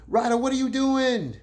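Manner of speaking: high, loud "what are you doing?" thrown at Ryder; exasperated call-out. Acted. Vlogger scolding Ryder over his diss, loud disbelief. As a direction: call him out, half laughing in disbelief.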